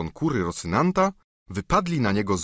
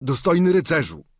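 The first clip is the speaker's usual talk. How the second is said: higher, whining plea; pleading squire; 7 semitones higher, 4 dB louder than usual. Acted. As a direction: beg like a bruised peasant. Sancho voiced.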